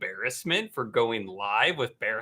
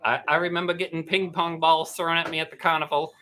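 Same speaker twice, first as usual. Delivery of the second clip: goldfish voice. Pretend. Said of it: "like your goldfish voice".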